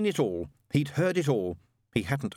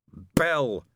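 raised, emphatic single word; fierce declaration; 4 semitones higher, 4 dB louder than usual. Acted. Witchfinder starts his exorcism, fiercely declaring. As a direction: proclaim the item like an exorcist.

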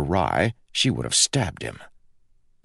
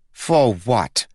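growling; 6 semitones higher, 4 dB louder than usual. Acted. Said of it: "growled Lila".

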